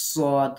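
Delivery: "সদ" with a whistling S; slightly whistled consonant. Shown as a demonstration. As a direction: let the opening of "সদ" whistle a little. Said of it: "কিছুটা শীষ দেয়া মতো শব্দ হবে". ("সদ" কিছুটা শীষ দিয়ে উচ্চারণ)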